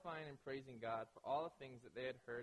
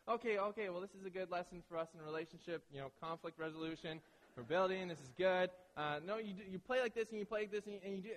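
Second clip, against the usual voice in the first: forced calm; 3 semitones higher than usual. Retold or imitated. Calming himself while re-explaining.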